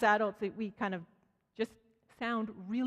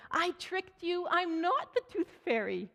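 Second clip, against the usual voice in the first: teasing gotcha; 8 semitones higher, slower than usual. Retold or imitated. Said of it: "she's like".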